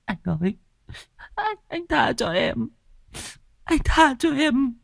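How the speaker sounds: high, tearful begging for mercy; pleading wife. Acted. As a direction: beg him to spare her. Wife begs husband for mercy.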